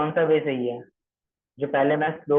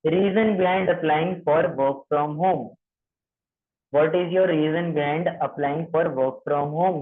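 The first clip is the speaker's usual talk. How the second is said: very slow, word by word; slow dictation; much slower than usual. Shown as a demonstration. Trainer dictates the script for trainees, very slow. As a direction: spell it out slowly for note-taking. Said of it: "ये सारी चीजें लिखने के लिए".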